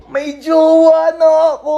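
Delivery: high, drawn-out squeal; excited announcement. Acted. Friend announcing a new partner, excited squeal. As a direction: gush it slowly, high-pitched.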